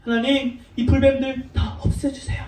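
acted earnest prayer, a little softened; gently imploring prayer voice; pleading prayer. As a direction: plead with God on others' behalf. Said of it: "기도했어요".

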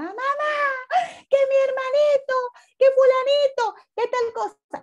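quejido agudo de niño acusando; niño alterado. Retold or imitated. (niño que acusa gritando a la mamá, voz aguda)

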